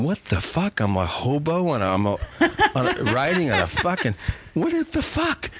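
high, laughing mock bewilderment; laughing disbelief. Retelling the salvia trip to friends, laughing incredulously. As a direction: crack up while acting out the confusion. Reenacting confused hallucination, laughing.

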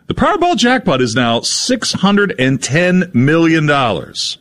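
upbeat radio ad read. Acted. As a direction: sell it like a lottery spot. Reads a lottery ad.

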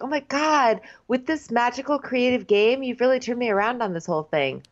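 high-pitched, hurried mock enthusiasm; mock gushing. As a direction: gush it as an imitation, starting high. Gushing turnaround quote, acted.

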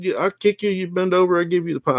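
imitating Dundee. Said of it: "he said".

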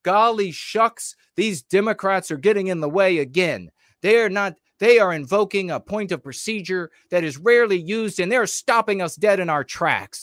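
lampoon a phony senator whining about procedure; mock folksy politician. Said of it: "You know what they're gonna say".

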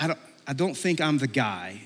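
soft, hesitant reluctance; a quiet, halting protest; mildly doubtful. Retold or imitated. Moses doubting his calling.

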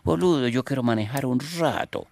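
put-on loud, high Argentine-accented pope. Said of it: "porque él dice boludo".

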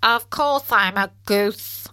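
a goose talking, lightly voiced; goosey voice. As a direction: speak like a goose. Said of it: "said a goosey sort of voice".

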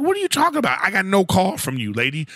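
indignant disbelief at the driver; incredulous. Retold or imitated. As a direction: act baffled by her claim. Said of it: "I'm like".

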